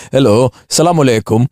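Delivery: a hint of a Blackburn caller; northern accent. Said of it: "I have to do it in a northern accent".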